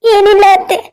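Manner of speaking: mildly feigned weepy reply; put-on tearful. Daughter-in-law brushing off mother-in-law's concern, mock tearful. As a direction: hold back pretend tears. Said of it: "ಯಾಕೆ ಅಳ್ತಾ ಇದೀಯಾ?".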